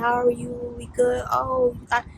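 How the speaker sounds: imitating the coworker's cheesy flirt; mimicking his flirting. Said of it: "He's like".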